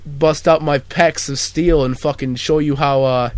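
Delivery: Mark Wahlberg. Pretend. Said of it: "Mark Wahlberg's gonna be on".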